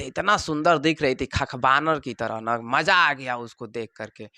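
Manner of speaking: slow, low, dreamy musing; a hint of a smitten boy, slowed down; dreamy lovestruck student. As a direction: savour the memory of her. Student daydreaming about girl at fair.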